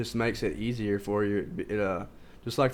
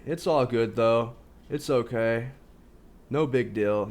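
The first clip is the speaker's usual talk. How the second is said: louder, drawn-out imitation of brushing it off; mock dismissive; 4 dB louder, slower than usual. Teacher mimicking excuses after a relapse, mock dismissive. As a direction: play at shrugging off a slip.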